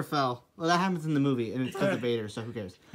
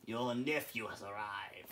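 deep menacing voice; 10 semitones lower, 19 dB quieter than usual. Acted. Emperor's dark announcement.

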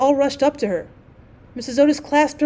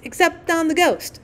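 high chanted repeat; gleeful shriek; 6 semitones higher than usual. A narrator's reading. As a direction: twins echoing each other in glee. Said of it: "shrieked the twins".

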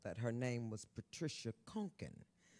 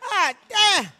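loud exclamation; 17 dB louder than usual. Real, not acted. Exclaiming about porn star role.

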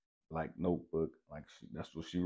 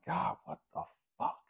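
high-pitched exasperated plea; retold anger, voice pushed way up; mad at God; 13 semitones higher than usual. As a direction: cry out in mock exasperation. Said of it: "I'm just mad at God".

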